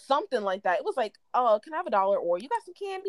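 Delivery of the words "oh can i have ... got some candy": birdish voice. Retold or imitated. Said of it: "It was something real birdish".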